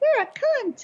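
very high, sugary, cute stuffed-animal voice. Imagining what a stuffed animal would say to a woman, in a cute stuffed-animal voice. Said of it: "the stuffed animal in a cute voice was like".

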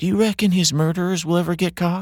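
very high, small, frightened voice. A narrator reads Cinda's question while walking with the others: scared little voice. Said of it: "Cinda said in a scared little voice".

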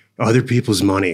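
ordinary delivery

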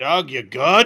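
loud, amplified voice. Using thaumaturgy to call out to doug outside, speaking loudly. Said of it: "speak loudly and say".

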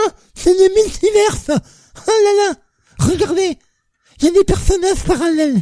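very high, sneering, smug, mocking know-it-all voice. Speaker mocking people who call everything a multiverse, imitating people who talk multiverse. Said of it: "C'est une très belle imitation".

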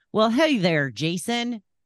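put-on, affected Southern accent. Opening the show, the host greets the other host in a put-on Southern accent. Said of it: "We're going southern".

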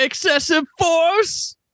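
high-pitched, slow, gleeful exclamation. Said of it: "he's, like, gleefully saying".

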